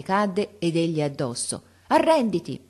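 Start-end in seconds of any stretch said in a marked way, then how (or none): 1.9-2.6 intimazione gridata. A narrator's reading. Franti intima la resa.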